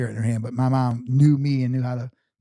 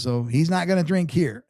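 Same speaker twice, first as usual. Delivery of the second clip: higher-pitched nasal imitation; nasally voice; 4 semitones higher than usual. Buddy telling barmaids no drinks, higher nasally voice. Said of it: "he's got a little nasally voice".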